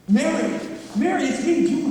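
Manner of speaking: calling out loudly to his wife; frantic call to Mary; desperate calling. Acted. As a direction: call her name, pleading to be recognized. George calling to frightened Mary.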